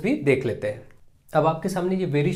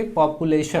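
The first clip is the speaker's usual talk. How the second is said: "पॉपुलेशन" sounded out part by part; syllable breakdown; slower than usual. Shown as a demonstration. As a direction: let each syllable of "पॉपुलेशन" sound separately. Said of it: "अलग से sound होगा". ("पॉपुलेशन" के हर syllable को अलग-अलग बोलना)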